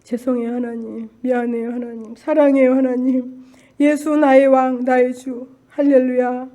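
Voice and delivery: prayerful apology. Retold or imitated. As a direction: speak tenderly to God, drawing out the praise. Re-enacts apology and praise.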